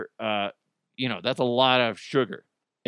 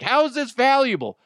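much higher and louder, disbelieving; incredulous outburst; 12 semitones higher, 5 dB louder than usual. Retold or imitated. Hearing the heirloom is an old egg, shocked and incredulous.

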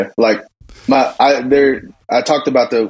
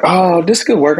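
higher-pitched hopeful daughter; lightly voiced kid pleased with the baking; imitating daughter; 8 semitones higher than usual. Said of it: "and she was like".

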